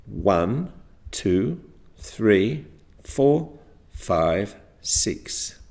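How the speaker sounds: one number at a time, spaced for pointing; measured counting. Shown as a demonstration. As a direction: count evenly at a steady, unhurried pace. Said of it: "at this speed".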